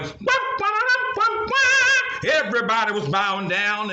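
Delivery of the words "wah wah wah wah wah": high sung wah wah, louder at the end; trumpet imitation. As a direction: blast it like a royal horn. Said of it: "And he went".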